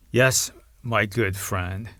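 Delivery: cool, unbothered reply. Acted. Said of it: "he said coolly".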